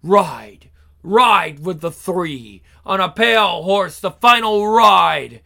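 rallying battle chant; loud. Acted. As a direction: call it out like a war chant. Chanting her battle call.

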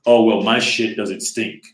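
slow, mildly put-on snooty voice; lightly mocking uppity airs. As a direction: play it a little self-important, drawn out. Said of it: "Well, uppity is like".

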